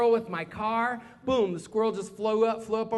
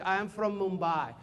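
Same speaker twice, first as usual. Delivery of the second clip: slow imitated Indian accent; careful, softer mock Indian accent; Indian student; 4 semitones lower, 5 dB quieter, slower than usual. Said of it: "And one guy's like".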